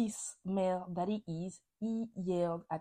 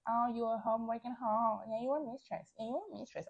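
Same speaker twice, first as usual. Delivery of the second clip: higher-pitched mock taunting; mocking insults; 4 semitones higher than usual. Imitating how she throws insults at someone, mocking. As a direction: parody a childish name-calling fight. Mimicking childish insults they would avoid.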